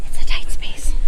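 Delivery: hushed worried whisper; nervous whisper. Real, not acted. Squeezing through tight space.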